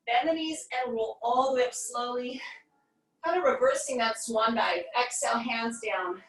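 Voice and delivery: slightly winded, breathing between words. Real, not acted. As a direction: talk while catching your breath. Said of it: "I'm a little out of breath".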